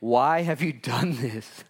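slow, tender asking; loving concern. Acted. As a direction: ask it gently, full of love. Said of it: "with concern and with endearment and with love".

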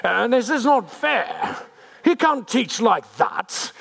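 hammed-up elitist complaint, drawn out; snooty religious leaders. Leaders grumbling he can't teach like that, slow mock-snooty. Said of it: "that's how they all talk like this".

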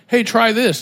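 put-on eager kid dare. Kids daring him to ramp.

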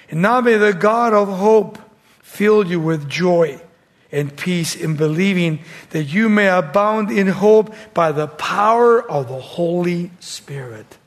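declaimed blessing, easing off at the end; preacher reading out a benediction; scripture reading. Acted. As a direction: proclaim the verse, slowing on the last words. Reads scripture aloud in preaching.

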